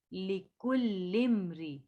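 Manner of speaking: लिकुल्लिम्रि with a short, unstretched li. Shown as a demonstration. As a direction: clip the li of लिकुल्लिम्रि. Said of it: "खींचना नहीं है बिल्कुल भी".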